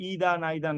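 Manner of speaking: "either" with an EE vowel, "neither" with an EYE vowel; wrong pronunciation. Shown as a demonstration. Teacher showing students another mistake, "either, neither" as EE-da, NIGH-da. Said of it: "না".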